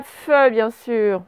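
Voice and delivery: fe said very slowly and held; teacher sounding out the first syllable fe; syllable spelled out. Shown as a demonstration. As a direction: stretch the syllable fe for pupils. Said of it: "Première syllabe".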